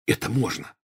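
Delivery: soft, eager undertone; excited whisper. A narrator's reading. Ron offers a way to eavesdrop, excited whisper. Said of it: "взволнованно зашептал Рон".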